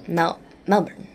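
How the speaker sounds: slow, lazy "Melbourne" with a reduced ending. Shown as a demonstration. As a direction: practise "Melbourne" lazily, stumbling into it, second syllable swallowed. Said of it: "say it as lazily as possible".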